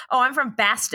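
"Boston" with a flat a, like "Baston"; failed Boston accent. Retold or imitated. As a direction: say "Boston" as a bad imitation, first vowel as in "bat". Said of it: "but not a Boston accent".

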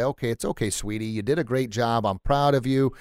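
a hint of a tender wife reassuring her husband; mock consoling wife. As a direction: soothe him like a tender wife. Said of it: "console you and say".

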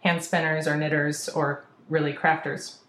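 talking between sips of water; while sipping a drink. Real, not acted. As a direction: speak around a sip of water. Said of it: "Sorry, I'm drinking my water".

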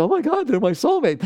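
high, loud, gushing mock rapture; mock swooning gush. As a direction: play the lovestruck mind, overjoyed. Mocking the mind's infatuation.

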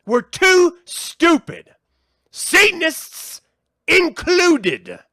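loud, high angry ranting; furious shouting at humanity. Real, not acted. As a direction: vent real fury at everyone. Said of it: "I don't know why I'm getting all heated about this".

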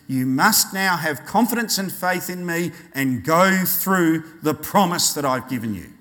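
measured, emphatic fatherly warning; stern. Acted. God warning his people off the path of death, stern. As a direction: command it firmly, no softening. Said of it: "talking to us a bit more sternly".

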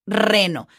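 reno with a strong trilled R; Spanish reno with a long rolled R. Shown as a demonstration. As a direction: trill the first sound of reno. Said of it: "able to pronounce".

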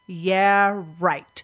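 sarcastic, drawn-out scoff; mock-skeptical put-down of oneself; eye-rolling disbelief. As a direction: dismiss it with a verbal eye roll. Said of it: "I just start rolling my eyes".

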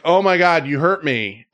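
high, whiny cry of hurt; mock victim. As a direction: play the wounded victim. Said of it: "it's like".

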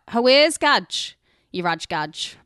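broad Cumbrian lad, slow; drawn-out Cumbrian greeting; cumbrian accent. Retold or imitated. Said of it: "You'd be like".

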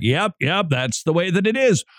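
chiming in with conviction; hearty agreement. Retold or imitated. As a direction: agree heartily, like seasoned old hands. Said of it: "they all heartily agreed".

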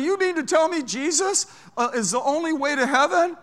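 put-on loud, high, tipsy challenge from a drunk passenger; loud drunk man. Drunk passenger loudly challenging the preacher, loud tipsy voice. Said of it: "he was a little loud 'cause he had been drinking".

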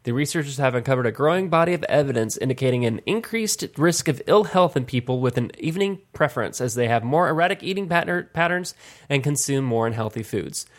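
measured, evenly paced news read; article read-aloud. Real, not acted. Host reads a health study to the others, measured read-aloud. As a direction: read it out like a short health report.

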